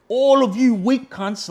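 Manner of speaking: high, loud, slow drawn-out insult; reliving the rage at the cops, shouting; raging yell. Retold or imitated. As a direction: shout it at all the cops, spitting each word. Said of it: "this is how much I was going off".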